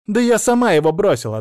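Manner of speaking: indignant shout. A narrator's reading. Therapist shouting back at the patient, loud and indignant. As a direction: defend her pride at full voice.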